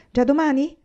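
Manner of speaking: eager question. Acted. Laura eager about the job.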